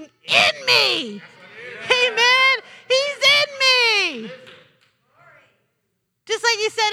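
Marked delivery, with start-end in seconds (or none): 0.0-4.3 loud, high, drawn-out declaration; exultant preaching shout. Real, not acted. Preacher declaring the anointing within, exultant shout. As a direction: shout it out in triumph to the congregation.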